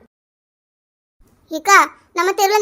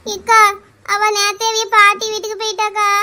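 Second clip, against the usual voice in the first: acted crying while answering; tearful whine. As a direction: answer through mock sobs. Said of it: "அப்படியா லட்சுமி இப்படி அழுறா?". (அழுகையோடு பதில் சொல்லும் குரல்)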